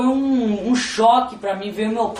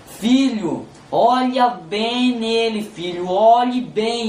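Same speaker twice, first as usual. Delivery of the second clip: slow, drawn-out divine command; God speaking; much slower than usual. Retold or imitated. God telling the son to look at his father, slow and deliberate. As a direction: stretch each word, lightly voicing God. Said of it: "E Deus falou assim pra mim".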